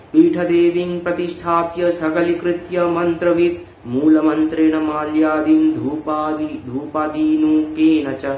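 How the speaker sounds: level, sustained scripture recitation; Sanskrit verse recitation. Acted. Teacher quoting the tantra on deity purification, Sanskrit verse recitation. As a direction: recite it evenly, stretching the long syllables.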